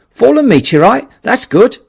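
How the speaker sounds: loud, high, pleased call; keen journalist calling back; eager reply. Acted. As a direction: shout back with delight. Henderson calls back, pleased.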